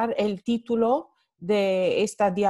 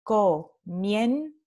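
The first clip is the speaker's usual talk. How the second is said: comienzo said slowly with the weight on "mien"; stress on the diptongo; slower than usual. Shown as a demonstration. Teacher pointing out the stressed diphthong, slowly. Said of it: "el diptongo va a formar la sílaba tónica".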